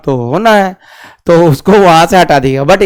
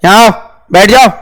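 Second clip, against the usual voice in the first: emphatic command. Shown as a demonstration. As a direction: call someone over firmly. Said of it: "आप जोर से बोल लेंगे कि". (ज़ोर से हुक्म देते हुए)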